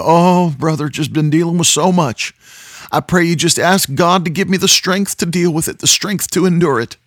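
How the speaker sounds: high, pleading mock request; whiny prayer request. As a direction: sound weary and helpless. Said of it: "people write me or call me".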